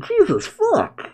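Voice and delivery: slow, very high shocked outburst; stunned disbelief; stunned curse. Real, not acted. Shocked reaction, cry heard.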